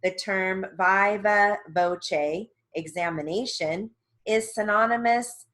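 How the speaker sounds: measured, evenly paced word-by-word dictation; dictation reading. Real, not acted. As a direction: read out glossary entries with careful enunciation. Reads sentences for dictation.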